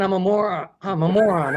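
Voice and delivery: laughing through the words. Real, not acted. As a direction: read it while cracking up. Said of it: "reading title twice".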